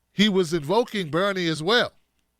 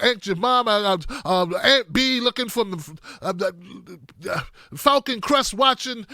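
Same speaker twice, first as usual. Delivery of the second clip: mock yelling Biden; 2 semitones higher than usual. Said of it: "Joe started yelling".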